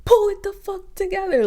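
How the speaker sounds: imitating Tasiki. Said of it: "So then here come Tasiki".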